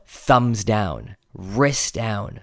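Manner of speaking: THUMBS DOWN, WRIST DOWN set apart and drawn out; deliberate weight on "thumbs down", "wrist down"; stress on key phrases. Shown as a demonstration. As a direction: land "thumbs down" and "wrist down" separately. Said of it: "I emphasized the word".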